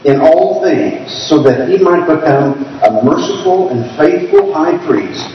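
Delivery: deliberate, spaced-out scripture reading; careful, measured reading aloud. Real, not acted. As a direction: take the verse slowly, phrase by phrase. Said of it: "read this a little bit slower".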